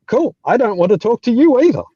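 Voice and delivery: high, loud, breezy brush-off; dismissive retort. Retold or imitated. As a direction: toss it back with mock indifference. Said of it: "I'm gonna be like".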